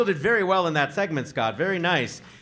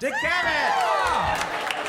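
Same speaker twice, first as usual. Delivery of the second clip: drawn-out, much higher gleeful cry of the name; excited welcome; much slower than usual. Real, not acted. Host hails the surprise expert guest, stretched and thrilled. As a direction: greet the legend like a game show reveal.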